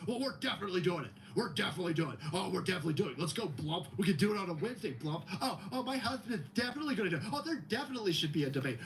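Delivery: mock eager. Mocking eager Biden camp.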